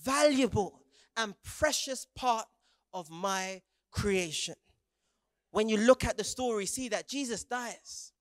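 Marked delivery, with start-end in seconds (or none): 0.0-4.6 tender assurance. Acted. Jesus tells listener their worth.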